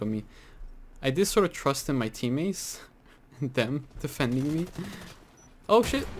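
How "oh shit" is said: panicked curse. Real, not acted. Sniped while planting, sudden panic.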